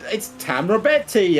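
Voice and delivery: put-on high, slow Italian accent. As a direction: announce it in a hammy Italian accent. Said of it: "I don't know why I put an Italian accent on it".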